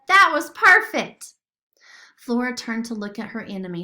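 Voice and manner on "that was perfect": loud, high cheer; thrilled praise, loud; excited shout. A narrator's reading. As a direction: cheer your friend on. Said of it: "shouted Sophia".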